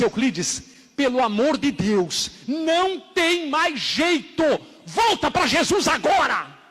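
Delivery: high, drawn-out acted entreaty; urgent plea. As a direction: plead with him to return, climbing and stretching the words. Worker's acted plea to backslider.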